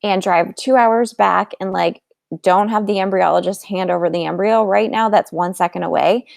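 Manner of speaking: a hint of mock cheerfulness to a husband; mock breezy change of mind. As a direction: toss it off as if it were nothing. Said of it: "Like, say".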